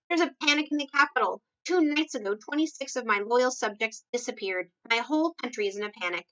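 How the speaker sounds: a lightly voiced fretting king pouring out news; alarmed king. King of Sweden reports panic.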